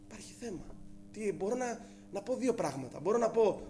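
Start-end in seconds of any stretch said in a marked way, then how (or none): 0.1-0.7 much softer, lower, flatly stated; quiet blunt verdict. Retold or imitated. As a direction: drop the voice right down for the verdict. Family member's blunt verdict. (η γυναίκα του λέει σιγανά ότι υπάρχει θέμα)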